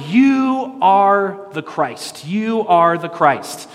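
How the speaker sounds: high, drawn-out proclamation; loud declaration. Acted. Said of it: "says very loudly".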